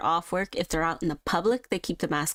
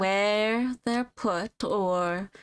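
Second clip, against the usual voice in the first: light southern twang. Acted. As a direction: muse on flowers with a hint of southern twang. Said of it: "slightly giving a southern twang to her".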